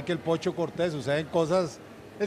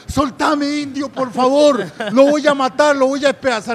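loud, high acted rage; mock furious shout; 7 semitones higher, 9 dB louder than usual. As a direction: yell like a fighter being held back. Acted fighter being held back. (imitando furia, a gritos agudos)

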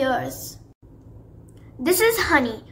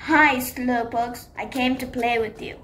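sneering villain Shadow; 3 semitones lower than usual. Acted. Shadow the bully arrives.

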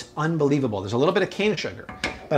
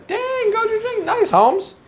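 excited; slower than usual. Real, not acted. Cheering on the dog.

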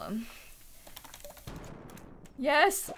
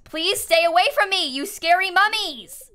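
mock scared plea; 9 semitones higher, 6 dB louder than usual. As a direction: beg the monsters to back off. Fleeing mummies in game.

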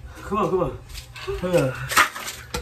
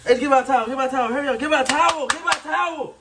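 urgent pleading; 5 semitones higher than usual. Real, not acted. Burning, begging for towel.

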